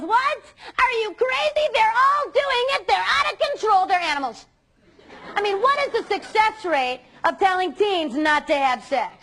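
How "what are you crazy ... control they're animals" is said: high, loud incredulous businessman; shocked businessman. Retold or imitated. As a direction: blurt it out like an outraged stranger on a plane. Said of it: "this guy looks over and he goes".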